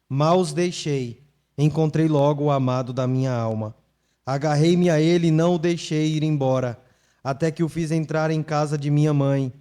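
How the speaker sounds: loud, measured reading of the text to the church; solemn scripture reading. Acted. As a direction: proclaim the verses to the congregation. Pastor reads scripture aloud. (leitura solene e forte das Escrituras)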